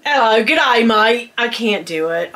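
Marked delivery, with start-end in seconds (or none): 0.0-1.3 lightly attempted Australian greeting; attempted Australian accent. Shown as a demonstration. Vlogger trying out an Australian greeting for viewers, attempted Australian accent. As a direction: try on a rough Australian accent. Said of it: "Australian accent".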